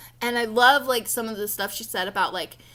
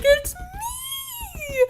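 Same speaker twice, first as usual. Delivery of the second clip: excited shriek. Retold or imitated. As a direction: shriek it like a fan meeting herself. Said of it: "and I'm like".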